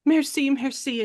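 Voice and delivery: a hint of a distressed French lady; grateful Frenchwoman. French character thanks her rescuer.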